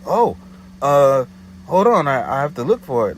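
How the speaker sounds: high, hammed-up flustered woman; flustered caller. Her flustered reply on phone.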